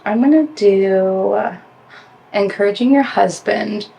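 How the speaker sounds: slight lisp from whitening strips on teeth. Real, not acted. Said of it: "it's giving me a lisp".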